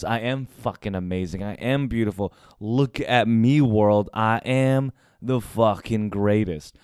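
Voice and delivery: lightly voiced swagger, slow on the last lines; mild cocky declaration, slowed down; arrogant bragging. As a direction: boast to the world like a big ego. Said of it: "massive arrogant confident ego".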